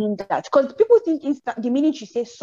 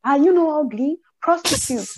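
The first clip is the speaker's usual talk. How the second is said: mock cursing; 5 semitones higher than usual. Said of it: "they will be cursing you".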